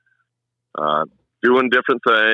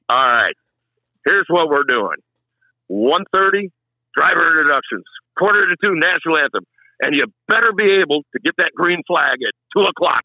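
bossy promoter laying down orders, higher-pitched; Bob Loga; 6 semitones higher than usual. Retold or imitated. Track boss giving a novice announcer the race schedule, high-pitched commanding impression. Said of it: "doesn't that sound like him?".

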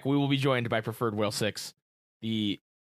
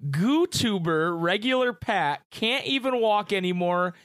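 slow, high mock-solemn read; dramatic reading; 7 semitones higher, slower than usual. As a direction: read it like grave news. Reading a listener's teasing comment.

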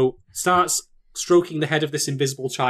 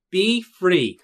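lightly voiced battle call; dubbed Thorkel line; 4 semitones higher than usual. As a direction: announce the move like a dub. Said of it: "dub myself over him and say".

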